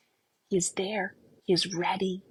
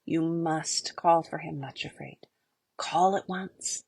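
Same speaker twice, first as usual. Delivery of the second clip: gentle urgency. Acted. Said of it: "very gently but urgently".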